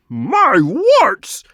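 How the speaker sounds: high, loud squawk of alarm; startled croak. A narrator's reading. Toad wizard startled by rats barging in, alarmed croak. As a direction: blurt it out in a fright. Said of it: "gave a loud croak, exclaiming".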